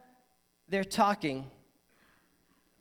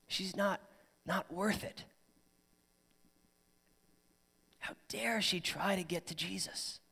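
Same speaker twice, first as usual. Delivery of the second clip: scoffing crowd; 7 dB quieter than usual. Retold or imitated. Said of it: "she was ridiculed, scoffed at".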